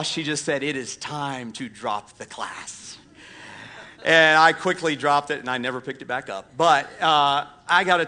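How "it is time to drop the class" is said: slow, softer Southern drawl delivering the verdict; mock a Southern lady's drawl, quiet and slow; deep Southern drawl. Teacher telling the boy to drop class, soft slow Southern drawl. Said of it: "in that deepest Southern drawl".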